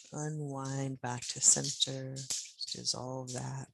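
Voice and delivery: slow, gentle unwinding cue. Shown as a demonstration. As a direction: ease it out gently and slowly. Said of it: "just in the gentlest way possible".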